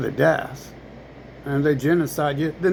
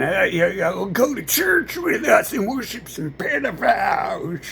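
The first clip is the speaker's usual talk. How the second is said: higher mock shout of demands; mock demanding voice; 6 semitones higher than usual. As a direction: bark orders as a caricature. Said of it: "And they're like".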